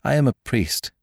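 high, mildly agitated cry; unsteady cry. A narrator's reading. Priest declaring his calling, crying out unsteadily. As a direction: protest with a touch of unsteadiness. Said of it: "he cried unsteadily".

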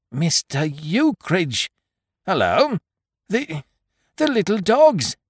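high, flustered landlord stammering; panicked. A narrator's reading. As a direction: blurt it out in a panic. Landlord panicking about lost dogs.

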